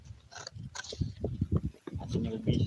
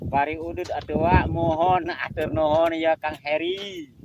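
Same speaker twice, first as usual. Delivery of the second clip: calling out; 6 semitones higher, 12 dB louder, slower than usual. Real, not acted. Calling out greetings outdoors.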